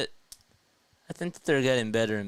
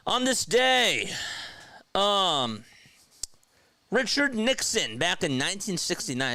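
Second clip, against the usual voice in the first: announcer voice; 3 semitones higher than usual. Acted. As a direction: present it like a showman. Fun fact segment.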